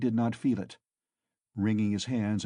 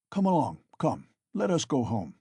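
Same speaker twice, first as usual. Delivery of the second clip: gentle urging; 3 semitones higher than usual. A narrator's reading. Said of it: "he said to him".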